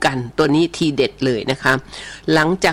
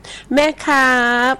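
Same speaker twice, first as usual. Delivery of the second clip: put-on high, slow drawn-out little boy calling mom; child's voice; 9 semitones higher, much slower than usual. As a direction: whine it out like a small kid wanting mom. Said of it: "ทำเสียงสอง เสียงสาม". (เสียงเด็กเล็กเรียกแม่ สูงและลากยาว)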